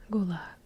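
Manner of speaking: gulag stressed on the final syllable, goo-LAG; back-syllable emphasis. Shown as a demonstration. Host demonstrating stress advice, gulag emphasized on last syllable. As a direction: lean on the second syllable of gulag. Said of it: "somewhere in the middle or in the back".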